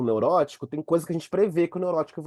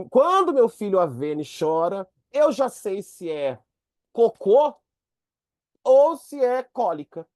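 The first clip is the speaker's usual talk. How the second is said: slow, higher, louder knowing mother; mother's voice; 6 semitones higher, 5 dB louder, slower than usual. Retold or imitated. Mother explaining her baby's cry, slow and sure. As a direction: say it like a mother who knows her baby. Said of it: "fala assim".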